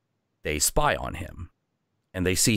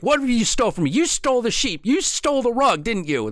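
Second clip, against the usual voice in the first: high, loud accusing yell; furious kid; 3 dB louder than usual. Acted. Little Viking confronting the innkeeper, a high accusing yell. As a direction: nail the thief with every line.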